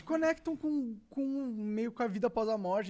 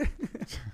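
burst of laughter; 7 semitones lower than usual. Real, not acted.

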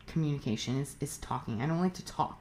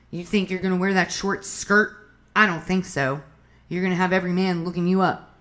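louder, mildly scolding mock partner; controlling partner; 5 dB louder than usual. Controlling partner forbidding a short skirt, mock scolding. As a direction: lay down the law, acted and a bit louder.

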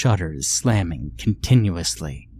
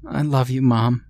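put-on lightly higher little boy; child's voice; 4 semitones higher than usual. Son telling his mother he loves her, light child voice. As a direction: say it simply as a small child. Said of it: "he stated".

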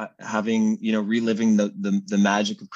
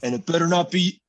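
higher, louder imitation of a child; raspy little son; 9 semitones higher, 5 dB louder than usual. Dad imitating son's warning, lightly raspy. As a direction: lightly mimic your son laying down a warning. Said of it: "he has this raspy voice".

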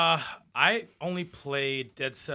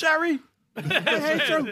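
slow hammed-up yell, much higher; mock hateful yell; 4 dB louder, slower than usual. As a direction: drag out a pretend grudge yell at Jerry. Imagined creator yelling at someone.

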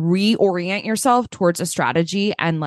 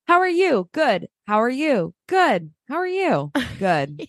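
mock small-talk loop; 4 semitones higher than usual. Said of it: "that thing where you're just like".

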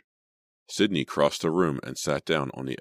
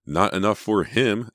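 pointed, higher and louder retort; declaring; 6 semitones higher, 5 dB louder than usual. A narrator's reading. Emma arguing Jason wants more money, declaring. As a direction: hit it hard as a comeback. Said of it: "Emma declared".

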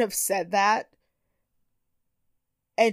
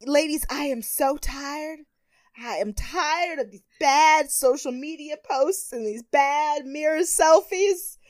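slow dramatic diva; 4 semitones higher than usual. Retold or imitated. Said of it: "real slowly".

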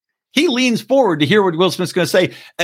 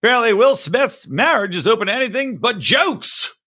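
Norm Macdonald impression; 6 semitones higher than usual. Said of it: "I can't do the accent now".

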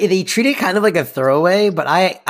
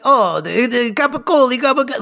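higher, rattling off mafia lingo; a light take on Val's insider talk; Val impression; 9 semitones higher than usual. Recapping Val's mafia rant, lightly higher voice. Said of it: "she's like".

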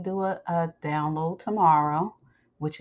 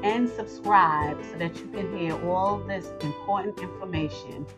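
promo read; 2 semitones higher than usual. Acted. Host telling listeners where to follow the sessions, promo read.

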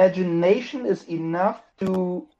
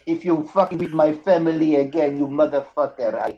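playful Italian mobster threat; comic Italian tough guy; mock Italian accent. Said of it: "Are you Italian now?".

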